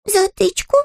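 high puzzled bear question; astonished. Acted. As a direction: echo it in bewilderment. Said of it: "ошарашенно повторил медвежонок".

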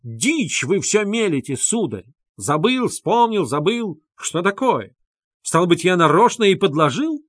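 high and loud, mocking his story; furious retort. A narrator's reading. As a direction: tear the accuser apart. Luzhin rages at accuser.

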